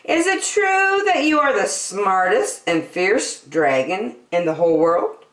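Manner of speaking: high, sweet flattering princess; butter up the dragon; coaxing, wide-eyed praise. Acted.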